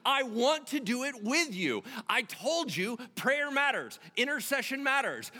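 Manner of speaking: high, loud, emphatic preaching; forceful sermon delivery with stretched key words. Real, not acted.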